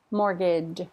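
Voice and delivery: Mortgage ending in a light j sound; soft final J. Shown as a demonstration. Teacher modelling mortgage, soft final j. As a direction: finish Mortgage with a small j. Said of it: "Pop it right on the end".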